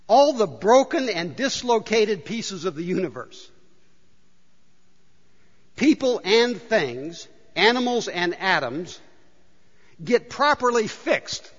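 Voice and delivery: scripture reading. Real, not acted. Reads paraphrase aloud.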